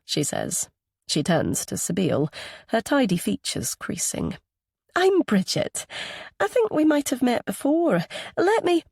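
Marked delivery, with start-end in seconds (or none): 5.0-8.8 high-pitched Anglo-Scottish woman; Anglo-Scottish accent. A narrator's reading. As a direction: introduce yourself in an Anglo-Scottish lilt. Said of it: "in that same Anglo-Scottish accent".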